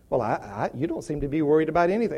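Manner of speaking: understated, low conversational doubt; mildly puzzled reply. Acted. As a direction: quietly play an unconvinced friend. Acts the friend's puzzled reply.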